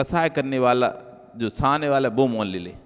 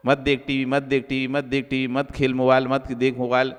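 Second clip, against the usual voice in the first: mildly patient mother repeating herself evenly; lightly acted even, unhurried nagging without anger; calm, patient. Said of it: "शांति से समझाती उसे".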